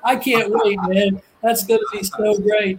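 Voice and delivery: real excitement, voice lifting a little; excited. Real, not acted. Speaker telling co-host he can't wait for the promised city, excited. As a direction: let genuine eagerness come through. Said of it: "You, you sound so excited".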